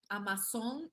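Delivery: AMAZON said Spanish-style as "ah-mah-SON"; Spanish-accented "amasón", rising at the end. Shown as a demonstration. Repeats it in Spanish pronunciation.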